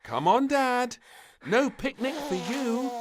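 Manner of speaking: put-on high, loud bossy child; bossy little girl. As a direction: shoo them off firmly. Princess bossing parents to bed.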